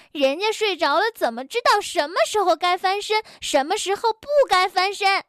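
越说越高、语速加快; 委屈又生气地反驳; 气呼呼顶嘴. Acted. 吵架顶嘴. (吵架时越说越急地顶嘴)

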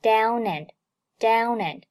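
"down and" run together as one word; linked pronunciation. Shown as a demonstration. Teacher repeats 连读 for learners, "down and" linked. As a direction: link the n of "down" into "and". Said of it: "连读down and".

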